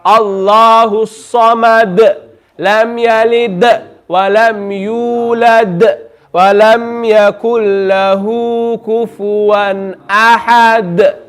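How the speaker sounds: slow, measured Quran recitation with echoed final d; qalqala recitation. Shown as a demonstration. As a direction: recite slowly, drawing out vowels, bouncing each closing d. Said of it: "that echoing sound".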